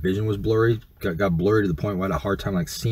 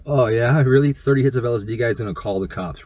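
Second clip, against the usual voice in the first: louder, higher retold taunt at first; mocking challenge; 4 semitones higher, 4 dB louder than usual. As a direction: call his bluff, imitating a scornful dude. Dude mocks his threat to call.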